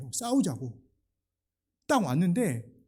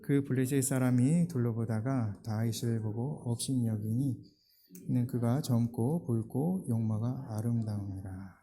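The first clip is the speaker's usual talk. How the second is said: unison reading; 6 semitones lower than usual. Shown as a demonstration. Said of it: "사십이 절을 우리 한 목소리 한번 읽어보도록 하겠습니다".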